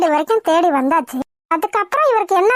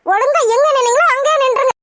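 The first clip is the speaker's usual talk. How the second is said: sterner order; 5 semitones higher than usual. Acted. Wife repeats the order, angrier.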